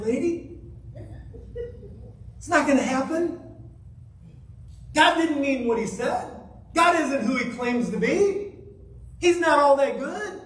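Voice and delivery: mildly sly tempting serpent; lightly voiced serpent. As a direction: coax Eve like a mild tempter. Voicing the serpent's lies.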